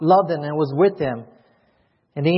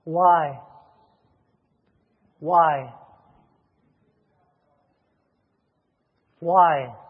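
sister's anguished cry; much slower than usual. Retold or imitated. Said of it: "She said".

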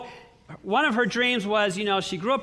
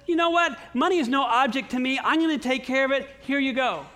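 higher, generous voice of God; lightly voiced, generous God; God's voice; 5 semitones higher than usual. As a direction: speak as God happily providing. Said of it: "But God said".

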